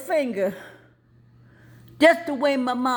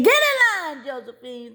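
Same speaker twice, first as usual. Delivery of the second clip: teacher yelling. Retold or imitated. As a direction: snap the order at the little girl.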